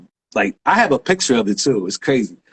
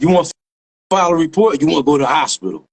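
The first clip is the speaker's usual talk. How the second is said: brisker, more forceful retold question; insistent repeat; 3 dB louder, faster than usual. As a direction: imitate a cop pressing the question. Retold cop repeats after "Huh?.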